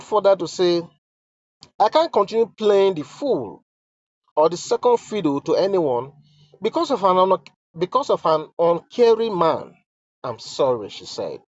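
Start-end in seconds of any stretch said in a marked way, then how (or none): 1.8-10.9 solemn dramatic reading; letter read aloud. Acted. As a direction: read each line as if it were the queen's own plea.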